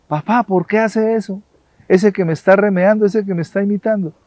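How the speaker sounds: put-on a boy rushing his grievance to papa; upset child. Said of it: "el niño se puso furioso".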